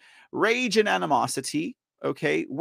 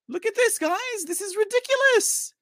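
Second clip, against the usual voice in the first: high-pitched incredulous outcry; exasperated outrage; 13 semitones higher than usual. Real, not acted. Streamer to viewers about a flyer with a pentagram, exasperated outrage. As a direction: pitch it way up in disbelief.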